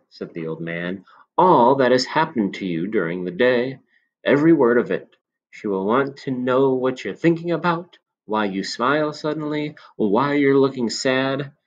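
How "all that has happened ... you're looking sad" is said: lightly voiced sly old man, a bit higher; a knowing old shopkeeper confiding.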